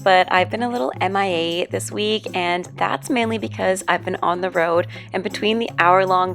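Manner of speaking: hoarse, strained voiceover voice; losing her voice, rough and worn; voice giving out. Real, not acted. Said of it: "which is the reason that I sound like this".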